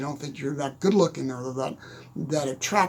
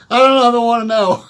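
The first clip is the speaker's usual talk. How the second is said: mock dread; 6 semitones higher, 13 dB louder, faster than usual. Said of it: "I'm like going".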